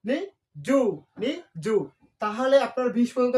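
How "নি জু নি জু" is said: জু said clearly as "ju", not "shu"; careful ju. Shown as a demonstration. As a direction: stress the জু sound. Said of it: "এটা জু উচ্চারণ করতে হবে".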